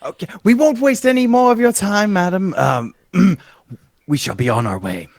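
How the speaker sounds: high, loud, formal farewell; bow out with courtly politeness. Acted.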